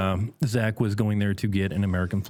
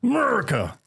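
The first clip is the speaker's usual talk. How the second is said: mock patriotic call; 12 semitones higher than usual. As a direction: belt it like a cheer. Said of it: "And I go".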